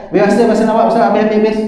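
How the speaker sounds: mild mock call of a hospital guard announcing visiting time is over. Preacher imitates a hospital guard ending visiting hours, mild mock call. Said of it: "Sampai bunyi macam tu".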